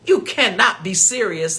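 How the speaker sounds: high mock disbelief; squeaky outraged caller; incredulous scammer. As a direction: mimic the caller's shocked squeal. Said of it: "He said".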